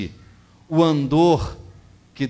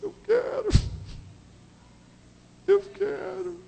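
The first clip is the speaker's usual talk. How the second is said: a high, small, weeping "I do"; high tearful cashier; slower than usual. Retold or imitated. The weeping cashier answers the preacher, high and thin.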